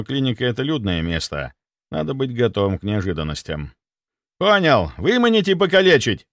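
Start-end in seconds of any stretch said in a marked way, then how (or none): 4.4-6.3 loud, high, eager military report; zealous soldier. Acted. Security chief vowing loyalty, loud and eager. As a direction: overeager servant. Sviridov misreads again.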